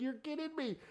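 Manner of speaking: high, loud scoffing showoff; mock disbelief. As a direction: scoff at them, then show how easy it is. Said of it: "I'm like".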